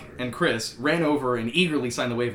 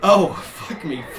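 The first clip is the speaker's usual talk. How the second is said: slow, laughing hammed-up plea; laughing mock moan; 3 semitones higher, 4 dB louder, slower than usual. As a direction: ham it up while laughing. Rock moaning in the scene.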